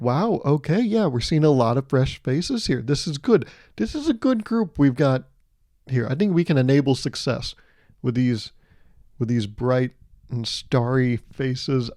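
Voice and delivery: newborn as corporate manager. Retold or imitated. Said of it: "baby born and then being like".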